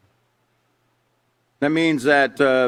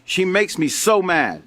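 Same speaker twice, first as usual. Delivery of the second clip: mildly acted exasperation without real shouting; half-hearted angry outburst at normal volume; mock angry yell; 3 semitones higher than usual. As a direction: play an upset complaint, only lightly heated. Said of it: "Susie yells".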